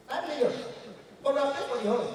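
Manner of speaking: a hammed-up high Igbo caller; high Igbo man voice. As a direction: sound like an eager Igbo trader on the phone. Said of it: "Igbo man".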